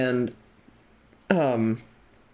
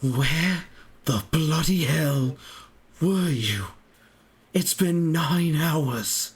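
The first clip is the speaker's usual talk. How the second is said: confused British man; slower than usual. Acted. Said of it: "As he looks at you all and goes".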